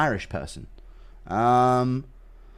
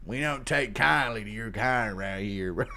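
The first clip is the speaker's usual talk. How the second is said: laughing; 4 semitones lower, 9 dB quieter than usual. Retold or imitated. Mock redneck line, laughing.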